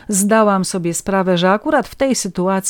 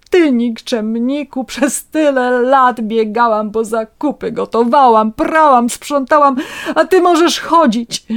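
high, loud tirade building to the end; tearful angry shouting; 6 semitones higher, 5 dB louder than usual. A narrator's reading. Wife berates husband who can walk after all, tearful outrage. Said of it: "krzyknęła przez łzy".

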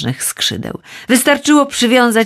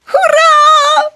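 very high, loud distant cry; joyful boy's shout; 5 dB louder than usual. A narrator's reading. The son answers his father from high above, loud and very high. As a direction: call down from far above, overjoyed. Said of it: "odpowiedział mu ... głos syna".

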